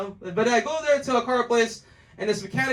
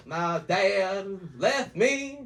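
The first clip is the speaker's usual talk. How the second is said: mock country whine; 4 semitones lower, much slower than usual. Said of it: "country people like".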